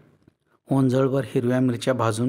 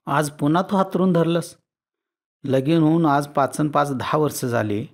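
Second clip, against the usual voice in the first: mildly exasperated husband, a bit higher; fed up; 3 semitones higher, 3 dB louder than usual. Acted. Husband nagging his bedridden wife, mildly exasperated. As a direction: scold her with weary annoyance. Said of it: "धोंडेबा जरा वैतागूनच म्हणाला".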